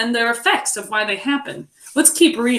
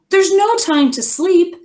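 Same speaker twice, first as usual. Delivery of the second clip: a touch of urgency; 7 semitones higher, 4 dB louder than usual. Acted. Teacher reading Beaver's line.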